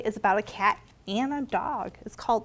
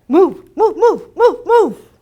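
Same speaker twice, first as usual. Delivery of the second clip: high loud barked orders; barking commands; 7 semitones higher, 14 dB louder, slower than usual. Acted. Simon barks at the cat to move. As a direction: bark each move like a dog. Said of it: "He barked".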